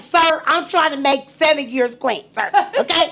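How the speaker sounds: half-laughing, mock-indignant protest; telling the old man to let her smoke, laughing; laughing retort. Retold reply, laughing.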